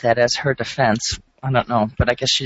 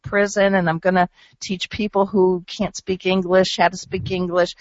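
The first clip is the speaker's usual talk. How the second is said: higher, lightly put-on voice of a defendant; mocking the defendant; 5 semitones higher than usual. Host mimics the defendant's prison plans, higher and mocking. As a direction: list her plans with a mocking lilt. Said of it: "she pulls out a T-shirt that says".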